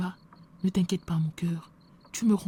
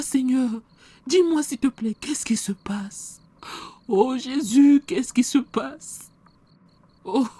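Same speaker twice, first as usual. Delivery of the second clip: louder, pleading cry to God; anguished prayer; 2 semitones higher, 5 dB louder than usual. Acted. Pastor cries out to God who seems silent, louder anguished plea.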